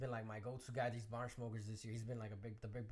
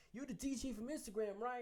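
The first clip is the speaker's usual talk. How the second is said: pitched well up, eager; a fan spotting you, voice jumps high; high excited recognition; 11 semitones higher than usual. Retold or imitated. Fan recognizing the DJ, high excited. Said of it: "he's like".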